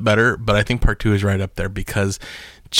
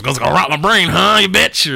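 put-on evil kid voice; 8 semitones higher than usual. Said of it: "and he goes".

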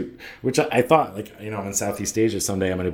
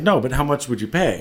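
pressing, higher-pitched question; insistent retold salesman; 5 semitones higher than usual. Tailor pressing a passer-by about pants, insistent. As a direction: press the reluctant customer, lightly acted.

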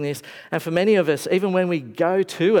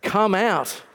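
loud call; 4 semitones higher, slower than usual. A narrator's reading. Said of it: "in a loud voice".

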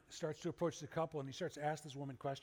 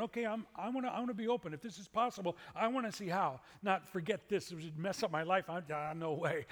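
seeker voice; 3 semitones higher, 4 dB louder than usual. Retold or imitated. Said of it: "in this camp going".

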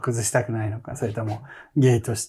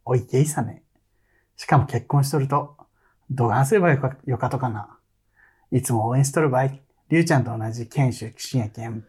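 Nagasaki dialect reading. Shown as a demonstration. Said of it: "長崎弁でラジオも話さんね".

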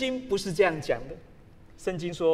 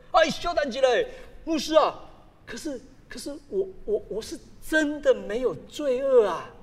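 earnest friend; 4 semitones higher than usual. Retold or imitated. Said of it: "他很认真的说".

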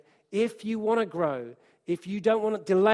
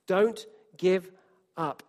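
louder, urging repeat; emphatic; 4 dB louder, slower than usual. Shown as a demonstration. Preacher urging the church, louder, not to give up. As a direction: press the words out with force.

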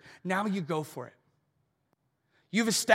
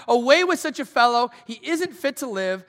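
loud, raised crowd cry; crowd shouting; 4 semitones higher, 6 dB louder than usual. Retold or imitated. The crowd turns on Paul, loud angry shout. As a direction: bellow it like an angry mob. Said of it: "They all began to shout".

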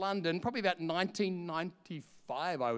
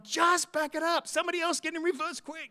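retold urgent call; 9 semitones higher than usual. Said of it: "And then I'm going".

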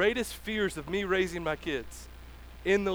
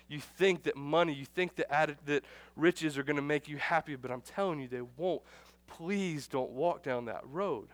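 softer and lower, slowing at the end; compassionate plea; 3 semitones lower, 3 dB quieter than usual. Pretend. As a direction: gently beg them not to go. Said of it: "There's a compassion in his voice".

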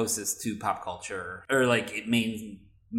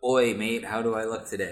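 put-on British accent. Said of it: "you'll have to read a singer".

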